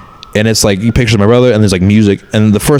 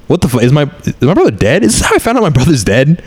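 rising, higher disbelieving outburst; retold shock and anger; 6 semitones higher than usual. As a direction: replay the moment he learned the news, voice climbing. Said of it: "I'm kinda pissed at first".

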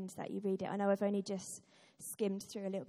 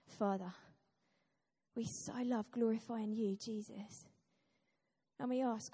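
prayer. Acted. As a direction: pray gently and sincerely. Leads prayer.

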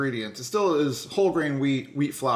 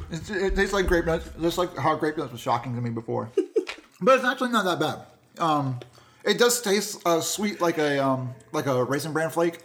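talking through a mouthful of cereal; munch while you speak; chewing while talking. Real, not acted. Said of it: "Excuse my munching again".

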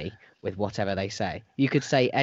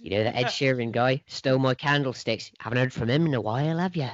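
West Country accent. Shown as a demonstration. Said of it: "in a West Country accent".

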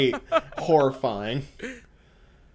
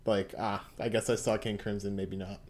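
lightly voiced Mista; 4 semitones lower, 5 dB quieter than usual. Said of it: "Trish, as Mista, just shakes his head".

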